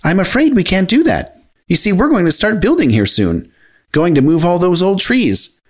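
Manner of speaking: high, polite cartoon character; Mickey Mouse, apologetic.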